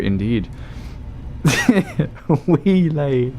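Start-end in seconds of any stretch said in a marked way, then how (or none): 1.4-3.3 higher, stretched-out "Wheelay"; silly drawn-out voice. Pretend. Streamer repeats the joke name, silly raised voice.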